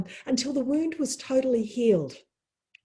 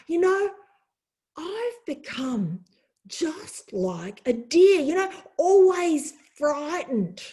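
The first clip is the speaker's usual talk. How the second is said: worried giant; 3 semitones higher, slower than usual. Acted. Giant blames deer, voiced in story.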